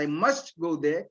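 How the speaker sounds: "must" stressed in "I must go there". Shown as a demonstration. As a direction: lean on the word "must". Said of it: "if you emphasize".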